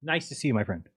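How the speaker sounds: echoey room sound; distant echoey mic; echoing bathroom. Real, not acted. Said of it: "You sound like you're in a bathroom".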